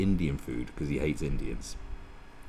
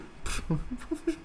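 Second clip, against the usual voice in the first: scoffing laugh; 6 dB quieter than usual. Acted. Scoffs at the idea.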